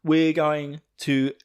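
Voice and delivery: high, fast rallying cry; Jean rallying. Retold or imitated. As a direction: call the squad to arms in a hurry. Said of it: "Jean's then flying around going".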